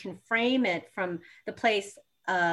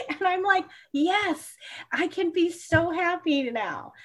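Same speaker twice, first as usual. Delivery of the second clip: laughing; 10 semitones higher than usual. Retold or imitated. Laughing, retold delight.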